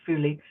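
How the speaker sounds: "fuli" begun with an f sound; pronunciation demo. Shown as a demonstration. Quilter explaining the written PHULI, "fuli" said with f. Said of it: "but they're pronounced fuli".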